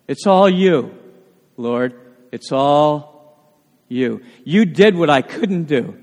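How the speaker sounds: low, slightly hushed words to the Lord; humble prayer. Acted. Preacher turning to the Lord in thanks, humble prayer. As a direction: pray it slowly sinking low, with pauses.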